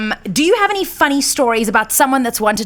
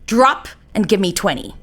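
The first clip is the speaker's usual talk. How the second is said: barking gym coach; 3 semitones higher than usual. Acted. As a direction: drill sergeant barking orders. Host drills guest like sergeant.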